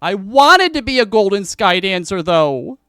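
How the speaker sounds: high, loud sulky wail; tearful whine. Acted. Saris wailing to Roz about her lost dream. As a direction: whine it through tears like a child. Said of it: "through tears and goes".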